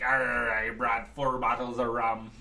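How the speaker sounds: slow, lightly voiced pirate drawl with a growled arr; a hint of a pirate captain bragging about his rum; Blackbeard impression. Mock pirate voice for a buddy greeting at the door. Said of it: "that's my Blackbeard impression".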